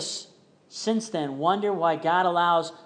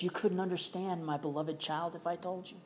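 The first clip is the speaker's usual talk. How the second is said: softer, gentle voice of God; God gently reassuring a hurting child, softer; still small voice; 6 dB quieter than usual. Acted. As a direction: speak softly, like a quiet reassurance. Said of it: "in that still small voice".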